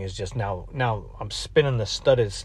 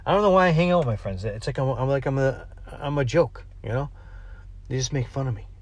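put-on whiny emo teen. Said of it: "You could hear the angst in my voice".

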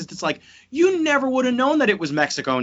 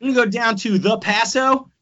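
put-on horrendous Texas accent; 3 semitones higher than usual. Texans chatting about going for tacos, mock Texas accent. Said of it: "my horrendous Texas accent".

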